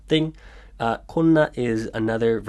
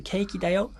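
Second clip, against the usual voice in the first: 케이크だよ said high and rising like a question; question intonation on 케이크だよ; 9 semitones higher, much faster than usual. Shown as a demonstration. Teacher showing students the questioning rise on 케이크だよ. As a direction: lift 케이크だよ up at the end as if asking. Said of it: "question intonation".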